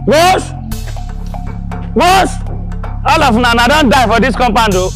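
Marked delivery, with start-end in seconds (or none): 3.1-4.9 angry. Acted. Creditor confronts household over contribution.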